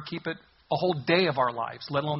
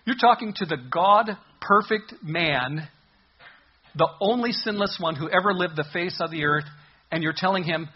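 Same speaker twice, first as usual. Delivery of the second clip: incredulous rebuke; 2 semitones higher, 4 dB louder than usual. Acted. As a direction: hammer home how absurd the claim is. Preacher mocking the man's claim.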